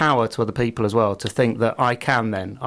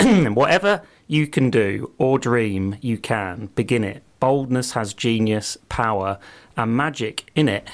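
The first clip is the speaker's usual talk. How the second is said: slow solemn recital; slower than usual. Shown as a demonstration. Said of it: "But anyway, it says this".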